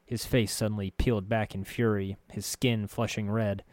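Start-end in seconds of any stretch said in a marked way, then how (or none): none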